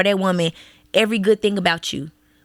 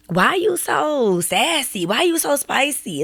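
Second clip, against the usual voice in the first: mock nosy question; 5 semitones higher, slower than usual. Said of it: "people will be like".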